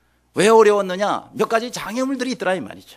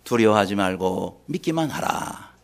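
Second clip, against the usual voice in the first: low, slow, measured command; solemn voice of Jesus; 10 semitones lower, slower than usual. Acted. Jesus answering a despairing father, solemn low command. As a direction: pronounce it slowly and low. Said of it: "예수님이 그때 뭐라고 말씀하셨습니까".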